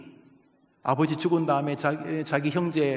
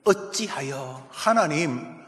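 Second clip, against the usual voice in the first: slow lament; much slower than usual. Shown as a demonstration. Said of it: "어찌하여 내게 죄악을 보게 하시며".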